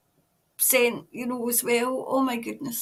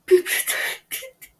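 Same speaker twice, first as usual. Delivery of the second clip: tearful, breaking voice; whispered sob on the words; crying; 8 semitones higher, much slower than usual. Real, not acted. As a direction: choke the words out through tears. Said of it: "I didn't mean to cry".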